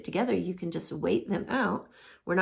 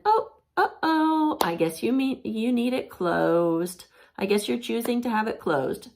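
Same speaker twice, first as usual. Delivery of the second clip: cheerfully firm parent; lightly hammed-up patient parent; sing-song parent; 5 semitones higher, 3 dB louder than usual. Shown as a demonstration. Parent sing-song reply to bolting child.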